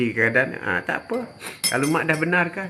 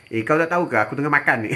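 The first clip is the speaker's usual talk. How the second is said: mock irritation; faster than usual.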